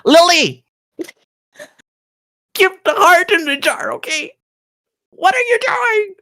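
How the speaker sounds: high-pitched, alarmed reprimand; very high, frantic telling-off; exasperated scolding. Acted. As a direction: squeal the friend's name, then scold. Scolds friend for blurting secret.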